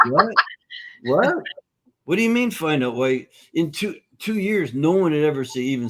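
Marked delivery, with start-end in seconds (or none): 0.0-3.3 like she just heard something impossible; stunned disbelief. Retold or imitated. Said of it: "her head snapped around so hard".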